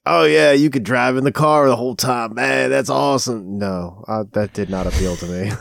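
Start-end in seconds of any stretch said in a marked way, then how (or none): 0.1-3.6 biker voice. Retold or imitated. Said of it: "is that your biker voice?".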